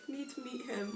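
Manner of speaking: high squeaky pleading fangirl voice; high-pitched whiny need; desperate plea. Retold or imitated.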